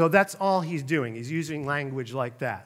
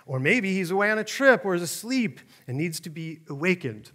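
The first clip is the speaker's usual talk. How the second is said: mocking scoff; 2 semitones higher than usual. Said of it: "he scoffed".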